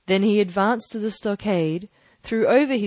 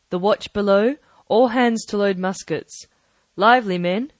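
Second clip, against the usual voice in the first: brisk captain's orders, louder at the end; commanding captain; 4 dB louder than usual. Acted. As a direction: bark the watch orders to his men. Captain giving battle orders.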